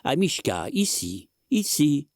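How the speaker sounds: high coaxing calls; calling out. A narrator's reading. Old man coaxing the dog from under the bed. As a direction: coax the dog out.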